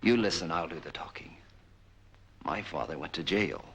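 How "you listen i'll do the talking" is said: loud, cutting him off; sharp command. Acted. Captor to prisoner, loud and sharp. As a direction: slam the words down to silence him.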